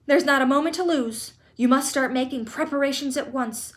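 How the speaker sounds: loud, eager rattle of orders; excited orders. Acted. Grandpa Joe ordering Charlie to get ready, loud and eager. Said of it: "shouted Grandpa Joe".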